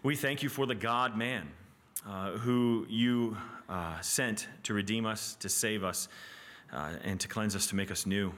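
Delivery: measured, halting spoken prayer. Real, not acted. Teacher closing the class by thanking the Father, praying. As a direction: pray slowly with pauses between phrases. Pray for us.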